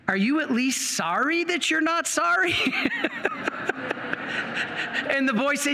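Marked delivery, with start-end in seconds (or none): 0.1-2.6 higher, laughing through the question. Retold or imitated. Priest to young man, amused and higher. 2.6-5.0 airy laugh. Real, not acted. Laugh after punchline.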